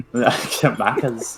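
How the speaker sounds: put-on Australian accent. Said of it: "That was the worst Australian accent".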